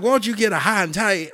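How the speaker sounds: a drill sergeant pushing a recruit toward a haircut; lightly voiced drill sergeant; mock drill sergeant. Drill sergeant scolding at barbershop.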